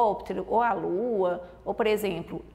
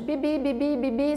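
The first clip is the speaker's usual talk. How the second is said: put-on child's nonsense answer; 4 semitones higher than usual. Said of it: "E a criança responde".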